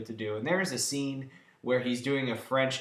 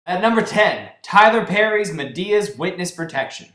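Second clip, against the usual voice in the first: loud, higher announcer call; countdown call; 5 semitones higher, 9 dB louder than usual. Acted. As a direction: boom out the ranking.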